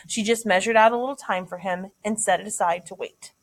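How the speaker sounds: read-aloud narration with lifted phrase openings; story narration. A narrator's reading. Teacher reads a passage to students, story narration. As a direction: read the novel passage out to listeners.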